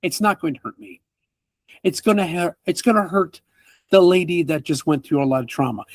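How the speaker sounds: man chides the party for the mess; scolding NPC. Acted. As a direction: lecture them on the trauma. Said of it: "And he goes".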